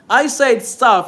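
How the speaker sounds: laughs, then says it slowly through the laugh. Real, not acted. Laughing to viewers about his old video. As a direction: chuckle as you remember it.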